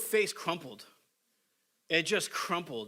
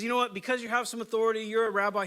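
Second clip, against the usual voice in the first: light, brisk humoring tone, slightly higher; humoring him; 5 semitones higher, 4 dB louder, faster than usual. Retold or imitated. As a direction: indulge him a little, half-amused. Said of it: "He's humoring him".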